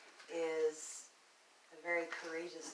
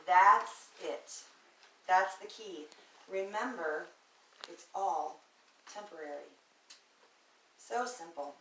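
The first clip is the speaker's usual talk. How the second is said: deliberate spoken-word delivery in short, spaced phrases; spoken-word poem; 3 semitones higher, 7 dB louder, slower than usual. Acted. Speaker offering hope about depression, measured spoken word. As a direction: land each phrase, then pause. Recites a second, hopeful piece.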